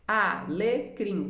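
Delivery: "Alecrim" slowly in three beats, a, le, crim; syllable by syllable. Shown as a demonstration. Teacher has pupils count syllables, "Alecrim" slowly split. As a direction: sound out "Alecrim" with each syllable apart. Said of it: "Quantas sílabas?".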